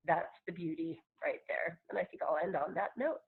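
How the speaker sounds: whispering. Real, not acted. Closing her talk softly.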